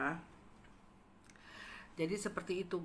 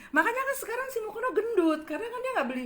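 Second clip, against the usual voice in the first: high, laughing through the words; 14 semitones higher, faster than usual. Real, not acted. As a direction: giggle as you mock him. Laughing while mocking Mukondo. (bicara sambil tertawa geli)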